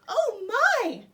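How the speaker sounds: put-on high, loud, startled old lady; startled cry. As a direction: shriek it out in fright. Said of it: "cried grandmother".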